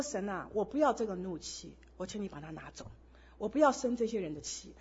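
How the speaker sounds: soft, low, hushed prayer; quiet kneeling prayer. Retold or imitated. Kneeling by the bed at night, praying softly. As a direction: pray it quietly, worn out. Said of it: "跪下祷告".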